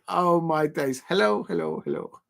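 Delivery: lightly voiced pigeon greeting, fading out at the end; mock pigeon voice. Voicing a pigeon on screen for stream chat, light mock pigeon. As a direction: give the pigeon a daft little voice. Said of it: "the pigeon is just saying".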